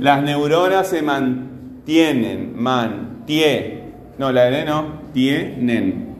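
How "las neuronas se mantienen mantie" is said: slow phrase, stretching TIE in "mantienen"; stressed syllable demo. Shown as a demonstration. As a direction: draw out "mantienen", then cut it to "mantie". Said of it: "Esta es la sílaba tónica".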